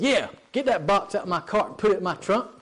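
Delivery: witchy, demanding impression; shrilly witchy old lady. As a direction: order a stranger about like a rude old woman. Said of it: "exactly how she said it".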